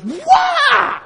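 very high, loud shrieked Wah; jump-scare yell; a sudden shrieking wah as she wakes; startled shout. Retold or imitated. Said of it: "she turns and goes".

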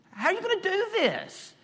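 doubting question. Acted. Voicing Abram's doubting question.

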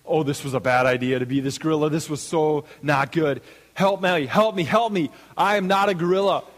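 acted panic building to high, loud cries for help; mounting mock terror; freaking out. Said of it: "he just starts freaking out".

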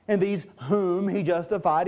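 "whom" weighted within the verse; stress on "whom". Real, not acted. Preacher reads who was justified, "whom" emphasized. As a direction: make "whom" stand out. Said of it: "I'm emphasizing the word whom".

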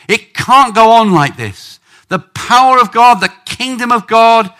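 loud, high urgent outcry, as if in labour; pushing and straining. Acted. Preacher voicing the baby bump twinging away, urgent shouting. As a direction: push each phrase out forcefully. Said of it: "a lot more pushing and screaming".

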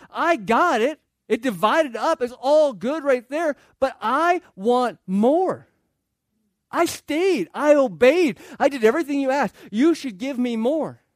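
loud mock whine of the dutiful brother; whiny older son. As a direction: list your good deeds like a sulky kid. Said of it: "Say that with a whiny voice".

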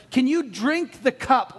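slow, emphatic quoted question; formal quoted question. Retold or imitated. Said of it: "We don't talk like that".

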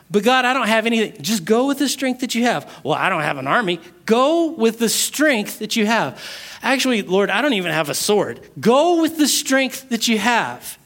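quick, flustered objections; hurried excuses. Acted. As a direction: rattle off the excuses fast. Gideon's excuses in dialogue.

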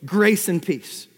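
"Grace and peace" drawn out slowly, each word weighted; slow emphatic. Shown as a demonstration. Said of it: "Here's the first two".

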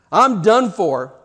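slow, resigned despair. Retold or imitated. Barabbas realizing his fate, slow heavy despair. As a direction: let the doom sink in slowly. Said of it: "he thinks to himself".

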